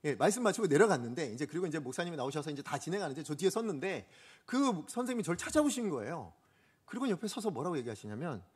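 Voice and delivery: ordinary delivery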